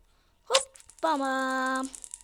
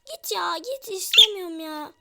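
loud, high shout of Ya Granny; angry shout; 7 semitones higher, 8 dB louder than usual. Real, not acted. Yelling at Granny who keeps appearing, angry shout. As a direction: yell her away, fed up.

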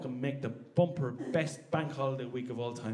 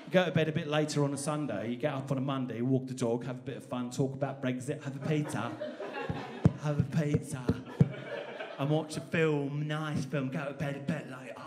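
put-on English accent. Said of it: "the English are very good at going".

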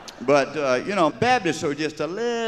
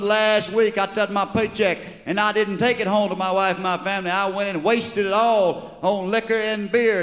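confessing sinner; 8 semitones higher than usual. Acted. Congregant confessing in church.

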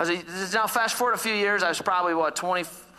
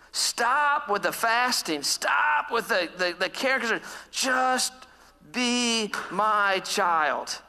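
tender; 3 semitones higher, much slower than usual. Retold or imitated. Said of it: "speaks to me very tenderly".

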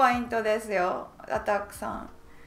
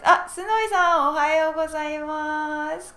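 excited greeting; 4 semitones higher, 4 dB louder, faster than usual. Real, not acted. Greeting viewer joining chat.

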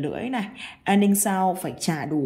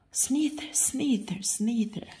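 hushed snake; 3 semitones higher, 6 dB quieter than usual. Acted. Acting out the snake.

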